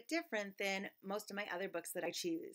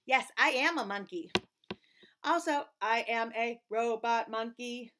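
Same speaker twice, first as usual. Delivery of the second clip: robot monkey voice; 4 dB louder than usual. Acted. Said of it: "my monkey voice".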